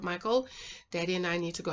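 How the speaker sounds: put-on gently hushed mother to her child; nice and soft. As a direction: keep the voice down, softly. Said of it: "nicely and softly".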